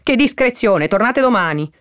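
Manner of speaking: sour, high-pitched dismissal; Perpetua. Acted. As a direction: send them away tartly. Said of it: "rispose agramente Perpetua". (congedo aspro, a voce acuta)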